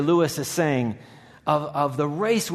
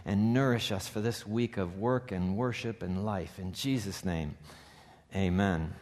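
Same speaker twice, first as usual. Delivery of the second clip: prayer; 3 semitones lower than usual. Acted. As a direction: pray it gently over the congregation. Pastor leads a prayer.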